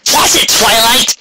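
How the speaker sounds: high, slow indignant yelp; startled snap. Acted. Rainbow ducking Twilight's stray magic, slow indignant yelp. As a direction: bark it out after a near miss.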